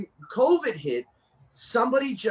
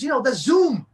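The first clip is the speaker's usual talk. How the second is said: excited Tony impression; 7 semitones higher, 7 dB louder than usual. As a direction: voice pitched up and pushed louder, all hyped up. Tony explaining Zoom.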